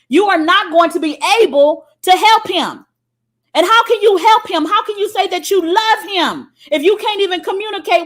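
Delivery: loud, high preaching at full force. Acted. Preacher scolding the ladies, loud full-force preaching. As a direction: drive it home to the congregation.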